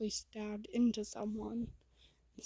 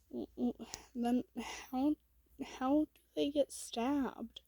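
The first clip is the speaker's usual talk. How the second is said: halting, then pitched up in bafflement; surprised; 3 semitones higher than usual. Acted. Goob questioning the movie stabbing, surprised. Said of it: "looks at you in surprise".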